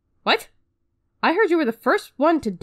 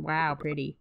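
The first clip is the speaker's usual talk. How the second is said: awed wow; 7 semitones lower, 5 dB quieter than usual. Retold or imitated. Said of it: "you don't know how to react other than".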